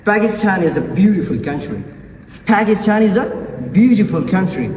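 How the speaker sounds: "Pakistan" opening with a puffed P; aspirated P. Shown as a demonstration. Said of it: "so it should be aspirated".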